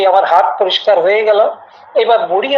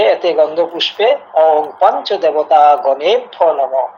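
mantra recitation; 2 semitones lower than usual. Shown as a demonstration. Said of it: "এইভাবেও যদি সংক্ষেপে পূজা করেন".

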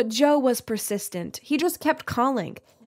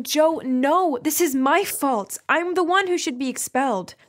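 higher, pleading insistence; urgent protest; 4 semitones higher than usual. Acted. Guilty girl begging Joe not to take blame, urgent protest.

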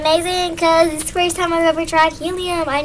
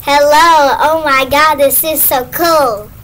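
helium voice; 4 dB louder, slower than usual. Real, not acted. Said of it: "Is this my normal voice?".

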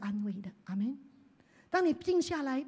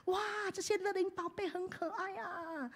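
softer, tender thanks to the Lord; soft heartfelt prayer; 4 semitones higher, 9 dB quieter than usual. Retold or imitated. Pastor voices his own intimate prayer, softly. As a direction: murmur it fondly. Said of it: "或者说".

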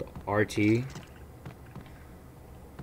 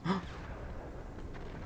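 sharp startled gasp; 8 semitones higher, 13 dB quieter than usual. Real, not acted. Startled by something on floor.

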